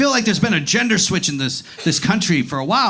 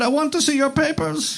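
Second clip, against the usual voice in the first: mock stern official; 7 semitones higher than usual. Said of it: "So I said".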